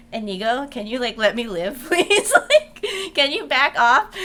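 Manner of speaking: rising, laughing exasperated plea; mock exasperation. Player to nosy companion, mock exasperation.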